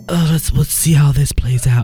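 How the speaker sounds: amused, laughing. Retold or imitated. Imagined amused thought.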